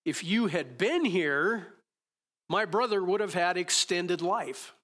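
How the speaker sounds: slow, emphatic complaint, lightly acted; Martha. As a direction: lightly voice a grieving sister's protest. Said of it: "Martha's response to Jesus is".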